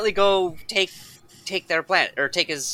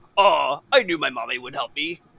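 put-on monster voice, lower pitch; 5 semitones lower than usual. Retelling what a character they first met said, in a Cookie Monster-like voice. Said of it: "Cookie Monster".

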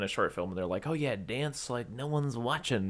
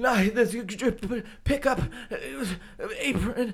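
mock panicked, breathless gasping, higher and louder; 13 semitones higher, 5 dB louder than usual. Imitating the actress gasping in panic: imitating panicked breathless speech. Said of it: "she's legitimately like".

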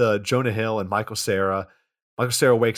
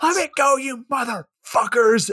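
very high, stretched-out, drawn-out protesting scream; 13 semitones higher than usual. Retelling a movie arrest scene: imitating someone screaming. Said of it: "as he screams".

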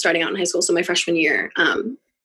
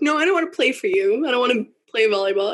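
put-on speech through crying, tearful; 6 semitones higher than usual. Retelling walking out and refusing to play volleyball, acting out speaking through tears. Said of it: "through my tears".

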